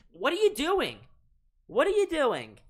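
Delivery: high, loud cry of disbelief; exasperated yell. Real, not acted. Fan caster to his blundering team, exasperated yell. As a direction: shout at the players in real frustration.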